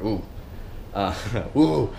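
grunting caveman ooh; ape-like ooh with a laugh; caveman noises. Retold or imitated. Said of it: "caveman noises".

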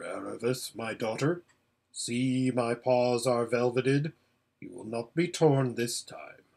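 lightly voiced grave lion, mostly low-pitched; Aslan, solemn and gentle. Lion calls his daughter Aravis near, solemn and gentle. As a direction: reassure with measured gravity.

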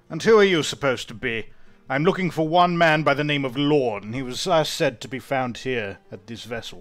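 suspicious. Acted. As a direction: challenge the stranger with open distrust. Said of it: "he squints at you suspiciously".

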